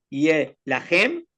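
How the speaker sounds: slow, drawn out Hebrew verse; reciting the Hebrew verse to the student, slowly; slow Hebrew recitation. Shown as a demonstration. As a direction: read the Hebrew phrase slowly, word by word. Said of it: "Eso se dice".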